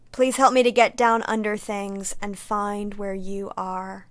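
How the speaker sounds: measured, even public radio read. Shown as a demonstration. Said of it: "I'm going to read in my best public radio voice".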